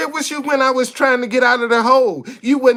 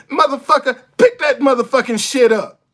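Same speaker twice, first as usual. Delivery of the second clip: mock cuss out. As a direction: snap from polite to furious. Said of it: "That's how you can".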